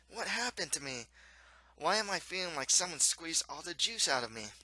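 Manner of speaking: storybook prince, puzzled and aching; bewildered prince. Acted. Prince wakes in pain, asks.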